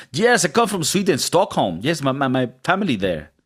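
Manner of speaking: lightly put-on Swedish accent, sing-song; Nordic accent. Asked for a Nordic accent, a light Swedish accent. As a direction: play a Swedish masseur named Jan, half-joking. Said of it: "Could you do a Nordic accent?".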